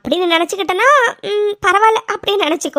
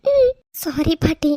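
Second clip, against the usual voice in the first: tearful sorry; slower than usual. Acted. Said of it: "அழாத".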